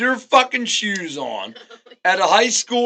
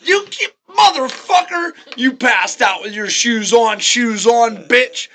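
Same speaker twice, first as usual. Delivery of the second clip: pitched-up mock indignation; rowdy party-goer out for mischief; mock outrage. Party-goer finds friend passed out in shoes, mock outrage.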